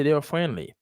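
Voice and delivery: "friendly" with the D dropped, like "fren-lee"; silent D. Shown as a demonstration. Teacher correcting a student's pronunciation, "friendly" with a silent D. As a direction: say "friendly" with no D sound. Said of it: "Ou pas besoin de prononcer D".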